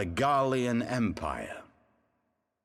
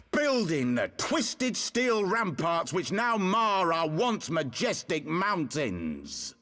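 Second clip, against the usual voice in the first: impassioned oratory climbing higher with each "We abandoned them"; rousing speech; 4 semitones higher than usual. Acted. A rebel leader rousing exiled countrymen, mounting impassioned oratory. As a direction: build the call to arms, each refrain higher.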